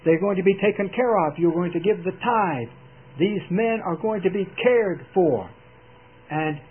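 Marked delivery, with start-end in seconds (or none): 0.0-5.5 firm, louder commanding declaration. Retold or imitated. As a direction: lay down the law like a governor. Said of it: "he said".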